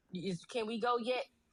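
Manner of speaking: normal talking voice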